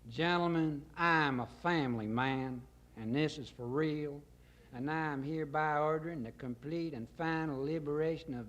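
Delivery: lightly voiced folksy president; hint of a grandiose political address; Colonel Corn Pone. Colonel ordering liberation before his gentlemen, lightly pompous folksy speech.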